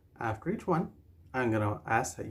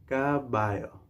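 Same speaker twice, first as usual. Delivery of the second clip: say-along model. Shown as a demonstration. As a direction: stretch "Caballo" for learners to repeat. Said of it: "Say it with me now".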